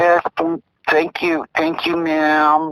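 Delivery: high-pitched imitation of a polite child; little kid's voice. Kid thanking the operator, put-on high little voice. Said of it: "He could do a little kid's voice".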